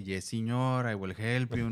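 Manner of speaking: mock immigrant-accented English; foreign-accented broken English. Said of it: "el equivalente de ... [coreano] con un ligero acento".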